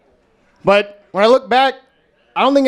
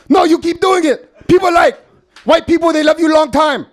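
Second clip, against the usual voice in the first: mock Asian dialect; 7 semitones higher, 3 dB louder than usual. Dad insisting white people love him, in a mock Asian dialect. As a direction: ham up the dad's Asian dialect. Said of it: "an Asian dialect voice".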